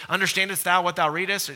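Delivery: lightly voiced old-Bible diction; a mild mock of stiff archaic speech; the preacher lightly mocking a King James rendering; King James English. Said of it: "Elizabethan King James English".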